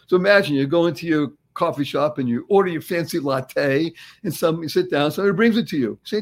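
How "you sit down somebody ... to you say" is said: ordinary delivery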